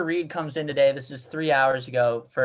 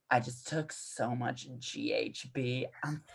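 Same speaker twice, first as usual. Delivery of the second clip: whispered secret; 4 semitones lower, 11 dB quieter than usual. Retold or imitated. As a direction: breathe it right into her ear. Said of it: "he whispers right in my ear".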